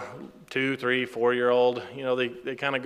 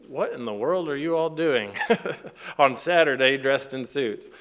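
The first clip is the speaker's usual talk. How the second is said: retold question broken by a chuckle; amused bafflement. Father questioning men in suits on Saturday, retold with amused bafflement. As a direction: ask it incredulously, laughing partway through.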